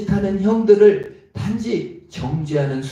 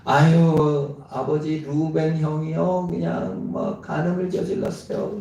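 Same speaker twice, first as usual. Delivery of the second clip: put-on tattling child. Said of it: "이러고 남 지적하면서 ... 고자질하면서".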